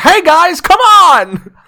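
super enthusiastic, loud, very high, slow delivery. Showing which voice you would pick for an ostrich, in a super enthusiastic, friendly Tom Hanks voice. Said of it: "super enthusiastic and friendly sounding".

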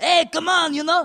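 bad, drawled French accent, high and loud. Speaker tries his accent bit again, doing a Napoleon French accent that sounds Mexican. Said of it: "it sounded Mexican".

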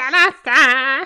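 sing-song, high, loud, slow and stretched out.

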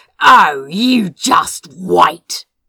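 very loud, seething, furious, angry snarl. Reading a story, the demon shouts at the retreating holly and ivy: snarling angrily. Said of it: "He snarled".

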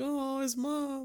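mock crying through words. Retelling how a parent reacted to a sad scene: imitating mom crying. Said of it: "My mom saw it and she started crying".

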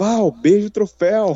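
high-pitched, shouted call. Retelling what she yelled to val at the podium moment, retelling a shout. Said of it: "eu gritei assim".

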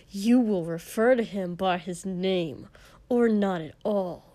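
hissed through gritted teeth. Narrating a character rebuking a king, hissed through gritted teeth. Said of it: "he hissed".

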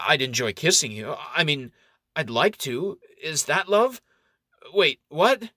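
stuttering, stammering delivery. Enganyan answers when asked if he truly loves her, stuttering. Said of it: "Enganyan stutters".

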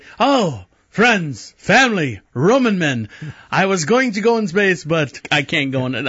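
bad, very slow, drawn-out delivery. Acting out a dramatic speech about not going to space: William Shatner impression. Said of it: "again, William Shatner".

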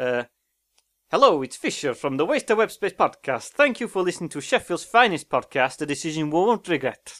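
Italian-accented English, put on. Speaker trying the podcast intro in different accents, italian accent. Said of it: "is that Italian?".

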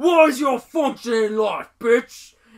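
very loud, very high, shrill confrontational yell. Describing a man who confronts everyone he meets, retelling a yell. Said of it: "he starts yelling".

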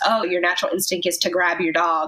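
plain

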